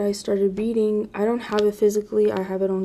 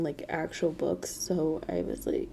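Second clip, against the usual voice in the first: breathy whisper, softer; whispered aside; 4 semitones lower, 9 dB quieter, slower than usual. Real, not acted. Vlogger admitting to viewers she never read, whispered. Muttered self-deprecating aside.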